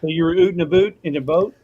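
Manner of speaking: mock Canadian "oot and aboot"; teasing Canadian vowels; Canadian accent. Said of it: "That was before my Canadian accent".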